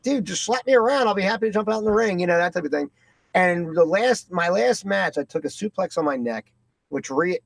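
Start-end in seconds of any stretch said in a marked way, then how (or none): 0.0-2.2 eager rookie. Retold or imitated. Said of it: "just like you said".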